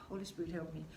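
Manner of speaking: soft murmured plea to the Holy Spirit; hushed, earnest call for help; quiet real prayer. Real, not acted. Real prayer mid-video.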